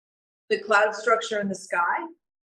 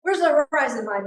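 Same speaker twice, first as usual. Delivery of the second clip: higher, agitated demand; mildly exasperated retold question; upset; 5 semitones higher than usual. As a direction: imitate an upset director demanding an answer. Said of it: "he gets all upset and he says".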